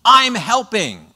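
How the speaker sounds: put-on high, slow, proud little toddler voice; slow, high childish brag. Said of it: "They were doing it with basically".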